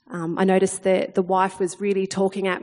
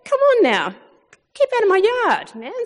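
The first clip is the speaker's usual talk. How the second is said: higher, louder mock telling-off of the dog; mock annoyed shout; 11 semitones higher, 3 dB louder than usual. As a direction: shoo the intruder off, half playful. Annoyed at dog mess in yard.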